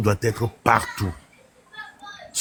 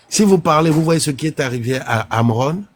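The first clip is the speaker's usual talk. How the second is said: threatening voice; 5 semitones higher than usual. Retold or imitated. Threat repeated louder.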